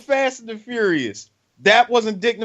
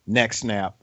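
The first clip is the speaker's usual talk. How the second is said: mock threat, action star; 10 semitones lower, 6 dB quieter than usual. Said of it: "get into an argument with Steven Seagal".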